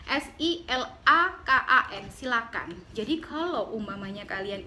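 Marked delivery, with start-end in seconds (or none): 0.1-2.1 "S I L A K A N" spelled slowly letter by letter; spelling it out. Shown as a demonstration. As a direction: spell out silakan slowly, each letter clear. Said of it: "nggak pakai H".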